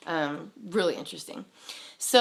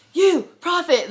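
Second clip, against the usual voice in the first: loud, raised-pitch retold call; single someone out with a loud shout; 12 semitones higher, 9 dB louder, slower than usual. Stranger on a bus hailing her dad as prophet, calling out.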